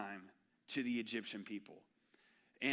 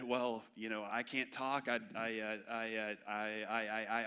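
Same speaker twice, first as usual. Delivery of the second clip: stammering excuse; 3 semitones lower than usual. Retold or imitated. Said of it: "all these excuses".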